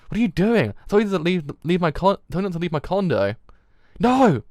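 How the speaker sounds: loud, high-pitched outraged yelling; furious shout. Acted. Doctor catches someone setting the specimen aflame, furious shout. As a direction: yell at them, building to a screamed "No".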